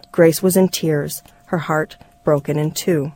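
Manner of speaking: measured memoir reading; story narration. A narrator's reading. Reader telling listeners of the broken family, story narration. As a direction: read it as a reflective story, phrase by phrase.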